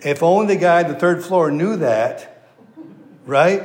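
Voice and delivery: laughing through the words at the punchline. Real, not acted. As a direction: chuckle while delivering the line. Preacher laughing at own joke.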